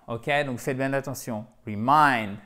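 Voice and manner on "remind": reMIND, the second syllable stressed; teacher drilling the stress of remind on its last syllable. Shown as a demonstration. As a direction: land on MIND in remind. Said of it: "avec un accent tonique sur la deuxième syllabe".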